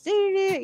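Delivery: high little doo-doo-doo; sing-song noise for spinning donuts; imitated car noise.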